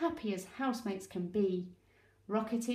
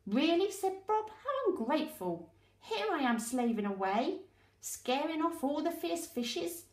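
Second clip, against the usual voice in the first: offended anemone; 6 semitones higher than usual. Acted.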